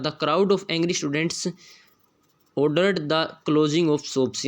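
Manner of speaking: reads the test sentence very slowly, word by word; slow dictation reading. Shown as a demonstration. Teacher reading the question sentence aloud, very slow. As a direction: spell it out slowly for the class.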